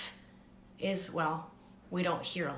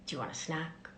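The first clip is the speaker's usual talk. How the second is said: tender; much faster than usual. Shown as a demonstration. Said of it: "I will ask these questions with tenderness".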